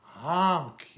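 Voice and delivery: loud, drawn horn blast; yelled honk. A narrator's reading. Dump truck barging past the animals, loud honk. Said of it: "yelled a dump truck".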